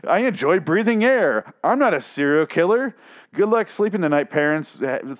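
a hint of a creepy robot child; mock menacing kid voice; creepy robot son. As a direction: voice the son as an eerie little machine. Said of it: "This son is a goddamn robot".

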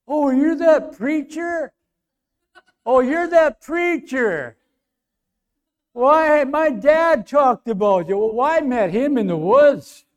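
high, loud imitation of dawning recognition; excited recognition. Truck driver recognizing that preacher, imitated with loud excitement. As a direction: exclaim it as if it just clicked.

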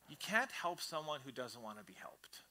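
breathy whisper, no voice; whispered truth. Real, not acted. Pastor whispers a hard truth to the congregation, hushed.

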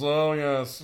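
loud Tom Hanks voice; Tom Hanks impression. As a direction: do an over-the-top Tom Hanks. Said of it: "not Tom Hanks is".

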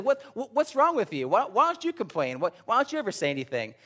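high, disbelieving coworker voice; incredulous coworker. Retold or imitated. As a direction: act baffled he never complains. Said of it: "He said".

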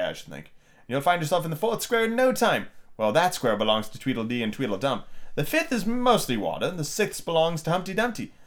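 lilting, instructive storybook Queen; a hint of a brisk, lecturing Queen; lightly voiced Queen. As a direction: explain the route as a lightly acted Queen. Reads the Queen's dialogue.

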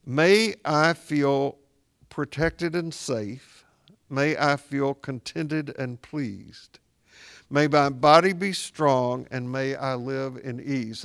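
slow, measured prayer voice, each phrase set apart; slow prayer recitation. Shown as a demonstration. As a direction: recite it slowly like a blessing. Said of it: "to go like this".

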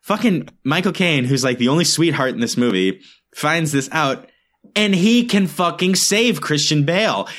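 real annoyance. Real, not acted. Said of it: "sorry, I'm really mad".

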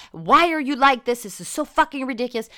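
imitating a tirade. Recalling her brother's sanitizer habit, a mock exasperated tirade. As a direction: let the irritation spill out. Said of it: "go on a fucking, like, tirade".

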